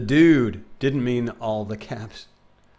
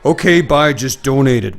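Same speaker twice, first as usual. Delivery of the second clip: excited; 2 semitones higher, 10 dB louder than usual. Real, not acted. Loud excited.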